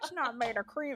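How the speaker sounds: put-on light Scottish accent. Repeating the spouse's line, imitating him, almost Sean Connery. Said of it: "That was almost Sean Connery".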